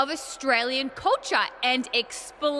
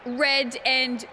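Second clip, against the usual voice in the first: laughing mockery; much slower than usual. Mocking the team name.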